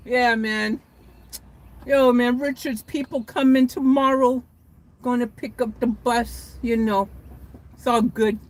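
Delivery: mock easygoing messenger; casual. Imitating friend relaying that the bus gets picked up, casual. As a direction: pass it on like no big deal. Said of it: "How do you even say that casually?".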